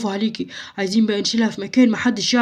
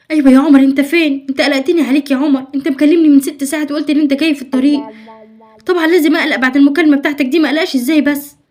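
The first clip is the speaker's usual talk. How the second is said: anxious phone call; 3 semitones higher, 5 dB louder than usual. Acted.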